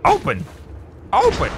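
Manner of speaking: put-on high squeaky "open" in a girly character voice; imagined girly voice. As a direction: put on his high little voice. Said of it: "I imagine that's how he talks".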